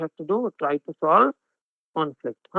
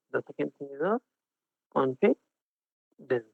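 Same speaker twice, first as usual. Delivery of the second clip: unconfident; 4 semitones lower, 6 dB quieter than usual. Shown as a demonstration.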